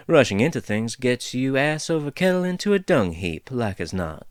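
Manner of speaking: lightly voiced folksy dwarf, amused; easygoing dwarf teasing the intruders; chatty dwarf woman. Dwarf figure rambles.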